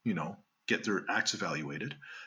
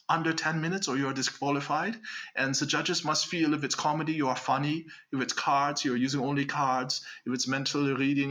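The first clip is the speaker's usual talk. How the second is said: put-on Hollywood German accent; 3 semitones higher than usual. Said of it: "my Hollywood German".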